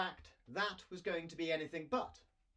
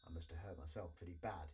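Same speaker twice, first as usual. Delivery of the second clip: softer, fast worried mutter; 8 semitones lower, 9 dB quieter, faster than usual. A narrator's reading. Hurt dragon talking to himself after the crash, a soft mutter. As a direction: mutter it to yourself in pain. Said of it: "he muttered widely".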